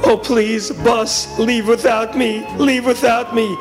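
drawn-out desperate begging; hammed-up schoolboy plea; pleading. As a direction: beg it to go. Boy begs the bus to go.

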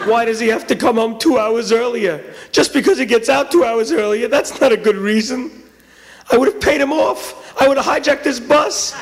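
rising high-pitched outrage; acted aggrieved schoolboy; indignant rant. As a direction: protest the unfairness, building. Boy rants about brother.

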